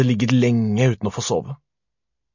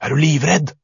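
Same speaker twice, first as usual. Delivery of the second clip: menacing monster; 4 semitones higher, 5 dB louder than usual. A narrator's reading. Monster tries to scare the boy.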